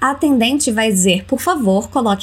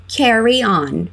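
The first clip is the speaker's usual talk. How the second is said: slow model phrase; slower than usual. Shown as a demonstration.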